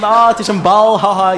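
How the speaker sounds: playful, giddy voice imitating Ted with his food; hammed-up delighted discovery; mock childish glee. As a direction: sound like a kid who just found out food is a ball. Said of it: "Dan ga jij met je eten lopen spelen van".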